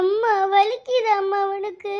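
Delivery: acted whimper, vowels stretched out; tearful concern. Child asking whether mother is hurting, tearful. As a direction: ask mother, near tears. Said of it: "அழுகாம போ பூமாரி".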